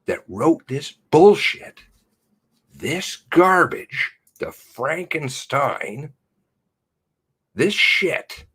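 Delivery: loud, high, slow furious shouting; furious yelling. Real, not acted. Vlogger raging at the government, shouting slowly and furiously. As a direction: spit each insult out in rage.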